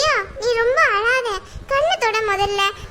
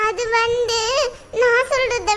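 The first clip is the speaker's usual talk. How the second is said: crying; slower than usual. Acted. Girl crying over moving away.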